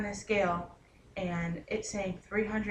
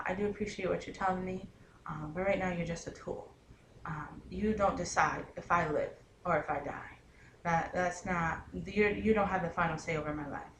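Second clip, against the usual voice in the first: polite but firm; 2 semitones lower than usual. Retold or imitated. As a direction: gently set the doctor straight. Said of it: "telling her politely".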